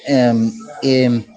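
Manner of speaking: Scouse-style Wirral accent; Liverpool accent. Shown as a demonstration. Host answering a request for Liverpool, Scouse accent. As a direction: talk in a put-on Merseyside accent. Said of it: "Do you Liverpool accent?".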